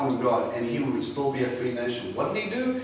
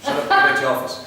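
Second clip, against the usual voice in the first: louder, bossy mock dismissal; mock telling off; 7 dB louder, faster than usual. Son ordering his worried mother back to her office, loud and bossy. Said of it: "I'm like".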